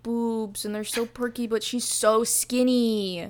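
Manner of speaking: mock pity, dragging out the last words; mock gushing. Reader parodies how the book describes poor Kaya, mock gushing. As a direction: gush in parody, stretching the key words. Mocking the book's sexualizing descriptions.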